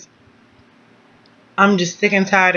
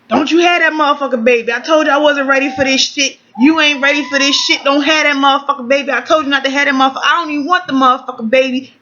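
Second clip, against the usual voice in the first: higher, fast run-on mock rant; imagined scolding; 5 semitones higher, faster than usual. Partner rejecting the pregnancy as she heard it, mock scolding. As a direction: rattle it off as a mildly heated telling-off.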